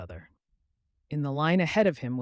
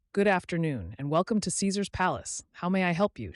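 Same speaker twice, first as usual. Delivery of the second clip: put-on polite front desk girl, a bit higher; a hint of a young desk clerk; lightly voiced hotel clerk; 4 semitones higher than usual. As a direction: welcome him like a cheerful receptionist. Desk clerk greets Jack.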